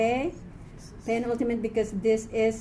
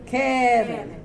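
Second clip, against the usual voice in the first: "Keren" with a long first syllable; teacher showing front stress in "Keren"; penultimate stress; 3 dB louder than usual. Shown as a demonstration. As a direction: lean on the opening syllable of "Keren". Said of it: "This is a segol segol".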